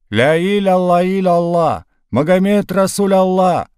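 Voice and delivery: high, loud frightened pleading chant; crowd calling on Allah. A narrator's reading. Frightened villagers running at the Cossacks, high pleading cries. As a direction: cry out to Allah as you run.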